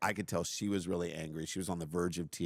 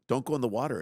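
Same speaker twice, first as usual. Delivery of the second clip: louder pleading repeat of Don't go in the water; anxious parent pleading louder at the water hazard; urgent repeat; 4 semitones higher, 5 dB louder, much faster than usual. Retold or imitated. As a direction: beg her, a bit louder, to keep off the water. Urging daughter at water hole.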